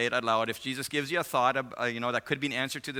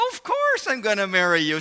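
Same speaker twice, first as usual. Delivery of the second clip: acted emphatic assurance; 8 semitones higher, 8 dB louder than usual. Fiancé assuring her of marriage, loud emphatic imitation. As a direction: burst out as the man.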